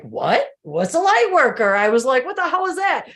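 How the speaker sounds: high, loud disbelief at a strange word; incredulous. Retold or imitated. Recalling first reading about light workers, loud shocked disbelief. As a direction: blurt it out like you can't believe it.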